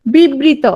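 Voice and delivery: বিবৃত said slowly, each syllable spelled out; slow emphasis. Shown as a demonstration. Teacher spells out the term for students, slow and emphatic. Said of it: "দেখো, বিবৃত".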